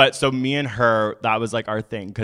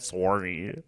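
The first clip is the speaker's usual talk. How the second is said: softer, lower Canadian "Sorry"; Canadian accent; 4 semitones lower, 8 dB quieter than usual. Shown as a demonstration. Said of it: "I love how Canadians say sorry".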